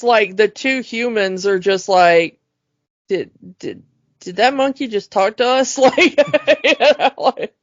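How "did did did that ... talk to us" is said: stunned stammer. Retold or imitated. Two humans who just heard an ape talk, stunned stammer.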